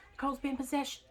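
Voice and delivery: high, toned-down mock wail; half-hearted high cry of alarm; imitated screaming. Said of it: "and she screams".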